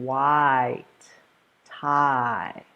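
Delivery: "White tie" with the mouth opening and closing; clear articulation. Shown as a demonstration. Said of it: "my mouth is opening and closing".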